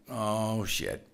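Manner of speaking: low, sinking mock dismay; retold dismay. Speaker recalls a woman screaming and standing up, retold dismay.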